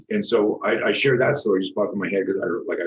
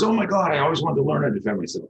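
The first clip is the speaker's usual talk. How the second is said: high, fast, excited retelling of her gush; mock-excited flight attendant, much higher; gushing excitement; 7 semitones higher, faster than usual. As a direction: imitate her breathless thrill.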